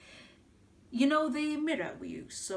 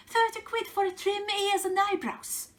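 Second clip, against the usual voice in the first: outraged disbelief; 9 semitones higher, 4 dB louder than usual. Acted. Outraged at rival prices.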